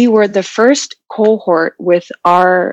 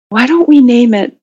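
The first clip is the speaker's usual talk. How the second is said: joking; 4 semitones higher than usual. Retold or imitated.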